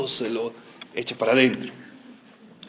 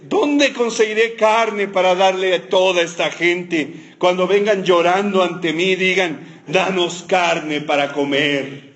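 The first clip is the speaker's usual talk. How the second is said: complaining mother; 2 semitones higher, slower than usual. Retold or imitated. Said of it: "Como cualquier mamá quejándose".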